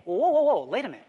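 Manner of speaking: high, loud burst of objection, easing off; mock interruption. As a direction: jump in to halt the argument. Acts out interrupting the critics' argument.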